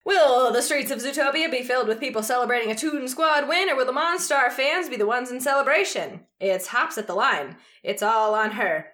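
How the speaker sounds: dramatic play-by-play read; sports announcer voice. Shown as a demonstration. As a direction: announce the big moment like a broadcaster. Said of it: "I'm gonna try and do my announcer voice".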